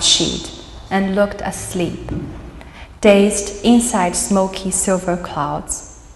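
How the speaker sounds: measured poetry recital with pauses between phrases; poem reading. Acted. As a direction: read it as an elegy, line by line. Reads own poem aloud.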